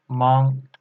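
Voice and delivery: "Mang" in a rising second tone. Shown as a demonstration. Teacher reading tones aloud, "Mang" in second tone. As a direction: lift "Mang" at the end, firmly. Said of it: "second tone".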